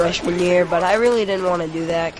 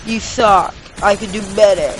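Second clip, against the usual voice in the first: snide, jeering internet troll voice; 3 dB louder than usual. Retold or imitated. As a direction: sneer it like a troll. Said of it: "I hope you like my troll voice right there".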